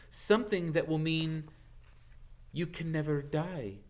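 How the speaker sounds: grave, darkly hinting voice; ominous centaur. A narrator's reading. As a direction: let the menace sink in. Firenze hints darkly.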